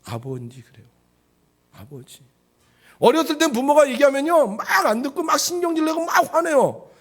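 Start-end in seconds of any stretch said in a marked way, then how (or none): 0.0-2.2 low, soft address to Father; mature, respectful child. Acted. Grown child addresses father respectfully, low and soft. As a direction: lower the voice in acted deference. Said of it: "나이가 들어서 철이 들면 어떻게 돼요?".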